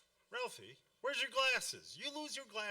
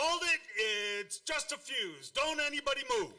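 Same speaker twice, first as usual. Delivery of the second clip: louder, taking charge in a blackout; commanding; 4 semitones higher, 4 dB louder than usual. Acted. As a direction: order everyone to freeze, fast at the end. Dad takes charge in the dark.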